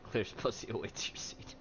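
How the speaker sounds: whispered echo. Real, not acted. Streamer whispers an echo of the clip.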